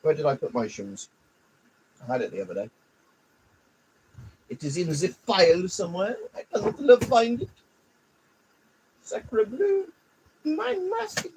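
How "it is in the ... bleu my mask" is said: mock French accent. Searching for mask, mock French.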